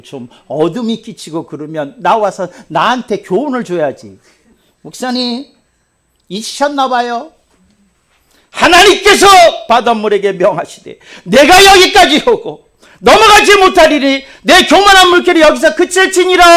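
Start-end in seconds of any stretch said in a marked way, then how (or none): 4.8-16.4 loud, high cheeky recitation; reminding congregant. Pretend. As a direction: tease the pastor back. Imagined congregant reminding pastor.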